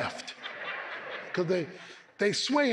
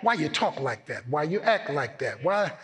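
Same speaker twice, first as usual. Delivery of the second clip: voicing questioning outsiders. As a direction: ask it as a puzzled neighbour. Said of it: "When they ask questions".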